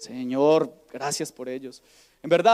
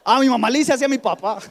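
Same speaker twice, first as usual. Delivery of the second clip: put-on child voice; 5 semitones higher, 6 dB louder than usual. Child explains the insult.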